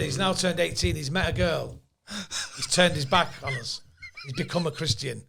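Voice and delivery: lightly acted Jewish father accent; Jewish joke voice. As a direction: confide it with a hint of a Jewish accent. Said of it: "Jewishing it up".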